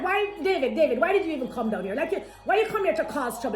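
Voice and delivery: mock angry big brother. Older brother scolding David for coming, mocking anger. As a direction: sneer down at little brother David. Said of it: "Like, he's angry at this point".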